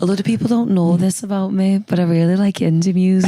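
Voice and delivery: second go at a Geordie impression; a singer's Geordie accent. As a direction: practise the Geordie accent carefully. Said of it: "I'm trying to do it. I need to practice".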